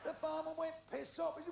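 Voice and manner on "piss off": raised-voice mock military order; loud comic dismissal; barman's loud refusal. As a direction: throw him out with a loud call. Barman answers the guardsman loudly.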